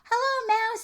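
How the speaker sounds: high, loud chirpy duck greeting; cheery duck. Acted. Duck greets the cow, high and loud. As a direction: sing out hello like a happy duck.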